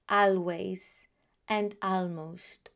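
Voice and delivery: always and almost with the a as in cat, AL-ways, AL-most; wrong pronunciation. Shown as a demonstration. Teacher showing the mistake Spanish speakers make. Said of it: "It is not".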